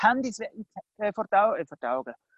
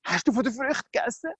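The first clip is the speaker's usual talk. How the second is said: high-pitched anxious pleading; acted concern, higher and hushed at the end; worried; 5 semitones higher than usual. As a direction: ask as if dreading the answer. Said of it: "Er hat Angst gehabt".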